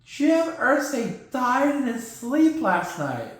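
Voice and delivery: high puppet voice, mock somber; slow, hammed-up cartoon sorrow; Ziggy the Zebra. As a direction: break sad news as a glum mascot. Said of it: "I'm somber".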